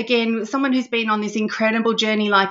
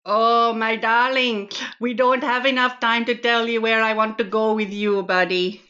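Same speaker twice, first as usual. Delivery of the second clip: flirty. Acted. Host flirts with guest on air.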